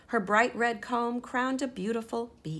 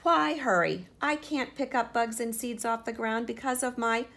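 higher, louder whine about her beak; complaining hen; 4 semitones higher, 7 dB louder than usual. Acted. Henrietta complaining to Sister about her beak, higher and louder. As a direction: protest like a fed-up hen.

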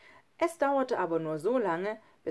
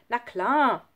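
raised, higher, confident answer; encouraging exclamation; 4 semitones higher, 6 dB louder than usual. A narrator's reading. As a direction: toss it back confidently. Encouraging friend in story dialogue. (laut und ermunternd)

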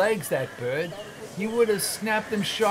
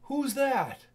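higher, softer questioning voice; nephew's voice; 7 semitones higher, 6 dB quieter than usual. Acted. Fred asking who came in, higher questioning voice. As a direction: ask it as someone else in the room.

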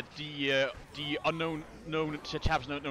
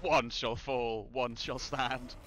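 Optimus Prime voice; 2 semitones lower, much slower than usual. Shown as a demonstration. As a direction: drag each word out like a giant robot. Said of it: "do an Optimus voice".

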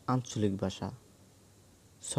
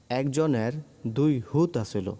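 Noakhali dialect; 3 semitones higher, 3 dB louder than usual. Shown as a demonstration. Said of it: "নোয়াখালীর আঞ্চলিক ভাষা হলো".

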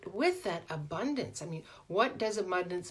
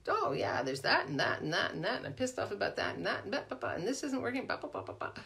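mock grumbling rant; 3 semitones higher, faster than usual. Acting out a grumbling mind.

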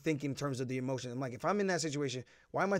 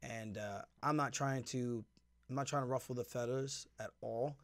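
biting tongue; 3 semitones lower, 7 dB quieter than usual. Real, not acted. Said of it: "I gotta choose my words very carefully here".

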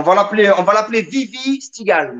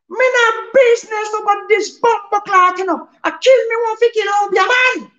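angry Jamaican voice; 13 semitones higher, 3 dB louder than usual. Acted. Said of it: "t'es trop vénère, frère". (menace en patois jamaïcain, lente puis criée)

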